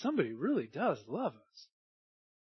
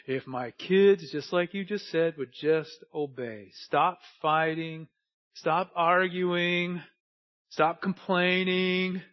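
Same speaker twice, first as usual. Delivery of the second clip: mock parent; 4 dB louder, slower than usual. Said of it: "normally it's something like this".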